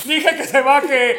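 high, slow, word-by-word shout; slow angry shout. Retold or imitated. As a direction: spell the order out slowly, furious. Taxi driver kicks out the mom.

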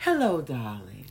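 light imitation of a sweet-talking mother; phony sweet voice. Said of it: "And then I call".

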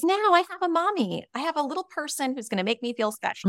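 imitating a mother who wants to feel special; mock needy mother. Mother voiced in a story.

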